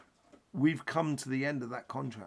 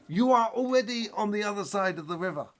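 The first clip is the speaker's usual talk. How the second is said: high, louder serene pronouncement; wise yogi master; 9 semitones higher, 7 dB louder than usual. Acted. Yogi master answers his student across the river, loud and serene. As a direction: deliver the punchline like a calm sage. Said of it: "the yogi master turns around and says".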